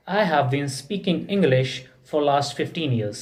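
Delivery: very slow, each word laid out for students; slow model sentence. Shown as a demonstration. Teacher giving the English answer, spoken very slowly. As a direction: dictate it slowly so the class can follow. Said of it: "रहा हूँ।".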